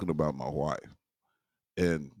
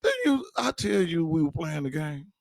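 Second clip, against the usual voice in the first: higher, odd-voiced aside to wife; husband scolding wife for ruining the joke, higher; exasperated aside; 9 semitones higher than usual. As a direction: hiss it at your wife in exasperation. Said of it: "be just like".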